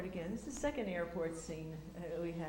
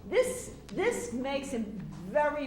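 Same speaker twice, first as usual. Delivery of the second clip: laughing while talking; 7 semitones higher, 11 dB louder than usual. Real, not acted.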